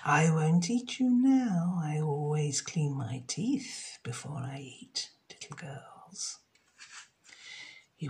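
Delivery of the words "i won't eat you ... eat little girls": hushed, sinister crocodile; sly crocodile. Acted. The crocodile leaves Jenny with a soft quiet threat. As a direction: whisper the menace to the little girl. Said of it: "Then the crocodile said".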